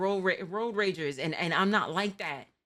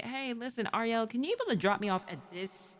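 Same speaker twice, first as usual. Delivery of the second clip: imitating friend asking. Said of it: "the occasional, like".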